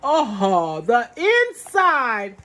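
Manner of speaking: loud, drawn-out delight; excited. Real, not acted. Unboxing a bag, she marvels loudly at the inside. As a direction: savour the word with wonder.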